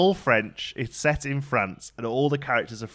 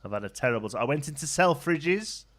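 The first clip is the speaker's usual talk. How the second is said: lightly voiced panto dame; a hint of the dame playing to the kids; mild panto dame. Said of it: "the dame comes on and says".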